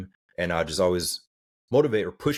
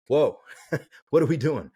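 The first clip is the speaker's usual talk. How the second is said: laughing disbelief; 7 semitones higher, 3 dB louder than usual. Retold or imitated. Mocking the long routine lists.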